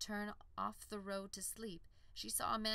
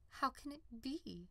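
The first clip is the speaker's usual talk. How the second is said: wondering; 7 semitones higher than usual. Acted. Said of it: "she wondered".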